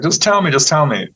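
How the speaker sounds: retold, mildly exasperated demand; upset doctor pleading. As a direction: lightly act an upset doctor pressing for answers. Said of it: "the doctor was really upset".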